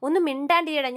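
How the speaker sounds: angry shut up. Retold or imitated. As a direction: tell him to shut up, half-acted. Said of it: "ശ്രുതിക്ക് ദേഷ്യം വരുവേ".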